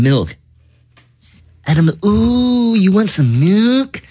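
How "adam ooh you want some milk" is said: bright high sing-song greeting; high excited voice. Acted. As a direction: chirp it up high. Milkman sings happily.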